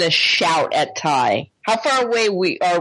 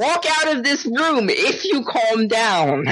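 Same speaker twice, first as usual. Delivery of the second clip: slow, higher-pitched ultimatum; firm scolding; 4 semitones higher than usual. Acted. Player bargaining with a yelling relative, slow stern ultimatum. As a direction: spell out the condition slowly and firmly.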